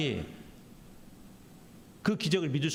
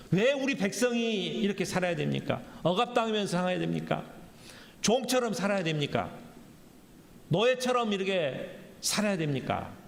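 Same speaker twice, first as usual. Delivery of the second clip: mildly anguished, acted protest; a touch of desperate appeal; desperate questioning; 4 semitones higher than usual. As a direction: plead in repeated, insistent questions. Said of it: "처절한 질문을 지금 하고 있어요".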